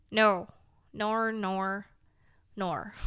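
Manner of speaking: half-joking Irish lilt; accidental Irish accent. Pretend. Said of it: "I don't even know what accent that was ... like, Irish".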